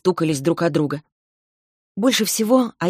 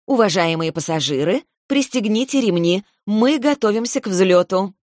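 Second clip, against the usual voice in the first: flight attendant; 3 semitones higher than usual. Pretend. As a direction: play the airline announcer for fun. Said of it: "громким дикторским голосом".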